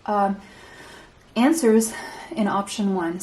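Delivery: catching breath between phrases; winded, breathing hard. Real, not acted. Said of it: "I'm still catching my breath".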